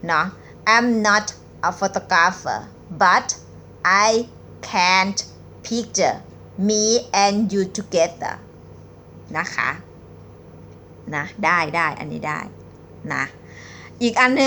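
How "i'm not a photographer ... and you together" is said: very slow reading. Shown as a demonstration. Teacher reading a pickup line very slowly to viewers. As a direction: read each word out slowly, with pauses. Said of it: "หนิงจะอ่านช้าๆนะคะ".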